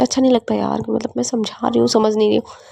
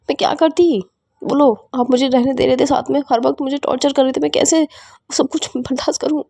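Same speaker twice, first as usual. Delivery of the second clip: higher-pitched, upset pleading; acted tearful outburst, voice raised in pitch; tearful protest; 3 semitones higher than usual. Wife asking how she could bear being tortured, tearful protest. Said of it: "रोना बंद करो".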